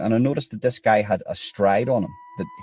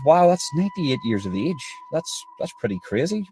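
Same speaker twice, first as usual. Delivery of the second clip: higher, wide-eyed wow; amazed; 6 semitones higher than usual. Retold or imitated. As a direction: marvel at the number. Reacting to the man's age.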